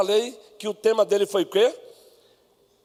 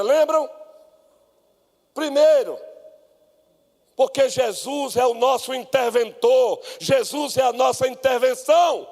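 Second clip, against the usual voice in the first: raised-pitch proclamation of sermon points; emphatic preaching; 5 semitones higher than usual. Acted. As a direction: preach it to the congregation, punching key words. (pregação enfática, em tom elevado)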